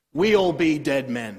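a light hint of a pirate reading the line; a touch of pirate on "We all be dead men". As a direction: growl it lightly like an old sea dog. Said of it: "Very pirate".

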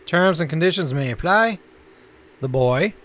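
announcer-style list reading; listings read. Acted. Co-host announcing this month's new Netflix titles, measured announcer read.

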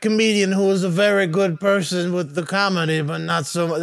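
hammed-up, badly faked Australian; old man attempting a bad Australian accent; a wobbly stab at an Australian voice; terrible Australian accent. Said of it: "That is a terrible Australian".

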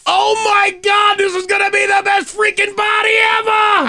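hammed-up Dorchester guy yelling; loud party-guy Boston voice; Boston bro. Boston bro bit continues.

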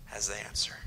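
hushed whisper to drive the point home; dramatic whisper. Real, not acted. Preacher to congregation, a hushed whisper. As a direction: let the line fall to a whisper.

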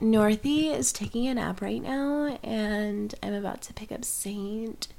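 lightly imitated reality-star voice; Kim Kardashian. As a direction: do a light celebrity mom impression. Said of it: "I was trying to imitate her".

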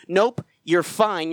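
dismissive doctor. Acted. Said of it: "a doctor telling you".

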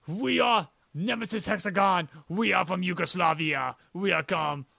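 slow, hammed-up Yugoslavian band accent; drawn-out fake Yugoslavian accent, stretching the final words; mock Yugoslavian accent. Playing a foreign opening act greeting fans, mock Yugoslavian accent. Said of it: "in those different accents".

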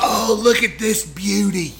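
high, slow hammed-up Australian accent; mock Australian. Teasing co-host about the accent, broad mock Australian. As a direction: parody an Australian nature-show host.

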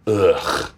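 low, drawn-out "ugh"; disgusted groan. Retold or imitated. Retelling first drive up the canyon, disgusted groan. Acting out own groan on arrival.

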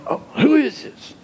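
high-pitched, baffled phone answer; puzzled mentor. Acted. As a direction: act out not recognizing the caller. Mentor puzzled by voiceless phone caller.

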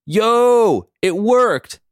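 high, loud, triumphant yell; excited calling out. A narrator's reading. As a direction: holler it in triumph. Character celebrates calling from screen.

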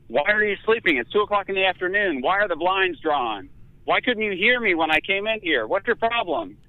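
mock drill sergeant, pitched high; drill sergeant nurse. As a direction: bark questions like a drill sergeant, half-hearted. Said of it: "screaming at me like a drill sergeant".

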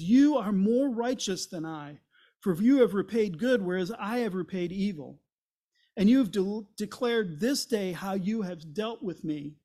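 a king cut to the heart, pleading loud; emotional pleading. Retold or imitated. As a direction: plead with rising force, voice lifted. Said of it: "Saul lifted up his voice and wept".

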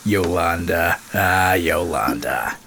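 breathy whispered sigh over the name. Acted. Whispering the name Yolanda to his podcast cohost. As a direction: whisper it like a fond memory.

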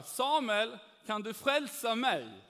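loud teasing call across the room. Retold or imitated. Colleague teasing the Christian seller, loud call. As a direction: call out to him, mocking.

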